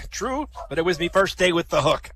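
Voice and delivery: lightly voiced pirate delivering the punchline; Sol. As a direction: admit it with a touch of sea dog. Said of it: "Two pirates, Morty and Sol".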